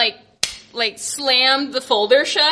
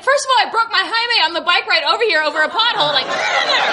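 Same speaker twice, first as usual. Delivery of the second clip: fast excited retort; 6 semitones higher, much faster than usual. Retold or imitated. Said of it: "And I was like".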